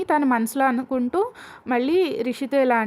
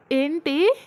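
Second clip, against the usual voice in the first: lightly anxious asking; 4 semitones higher than usual. Retold or imitated. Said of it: "కంగారుగా అడుగుతుంది".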